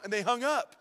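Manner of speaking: ordinary delivery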